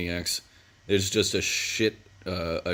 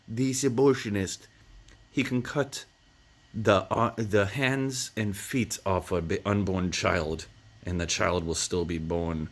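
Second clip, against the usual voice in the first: lightly menacing, savouring the cruelty; creepy villain threat. Retold or imitated. The villain describes the abortionist to Vince, mildly sinister. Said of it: "this creepy European man".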